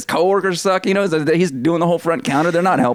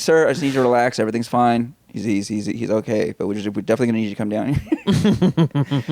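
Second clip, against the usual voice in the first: calming; 7 semitones lower than usual. Acted. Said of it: "you bring him down".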